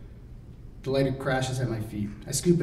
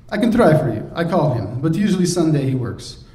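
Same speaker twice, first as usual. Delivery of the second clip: lightly voiced Drago; 4 semitones higher, 5 dB louder than usual. Drago's accented voice.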